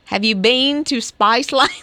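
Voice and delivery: Australian accent with a little cockiness, rising at the end; cocky Australian accent. Shown as a demonstration. Host showing how it's done, cocky Australian accent. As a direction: put some Aussie swagger in it. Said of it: "put the little Australian cockiness in it".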